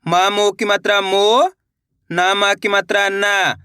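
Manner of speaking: slow, drawn-out spelling recitation; teacher's slow spelling drill; spelling out slowly. Shown as a demonstration. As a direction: sound out each letter and vowel sign, slowly. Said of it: "देखिए किस तरीके से".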